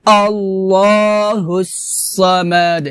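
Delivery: slow, drawn-out recitation; Quran recitation. Shown as a demonstration. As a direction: recite the verse slowly with long held vowels. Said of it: "আমার সাথে বলেন".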